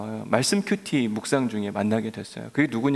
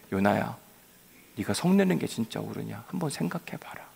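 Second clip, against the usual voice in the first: softer, lower, tender question to Jonah; gentle God; 4 semitones lower, 5 dB quieter than usual. Acted. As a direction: coax him gently to think again. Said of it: "하나님은 아주 부드럽게". (부드럽고 조용하게 타이르는 하나님)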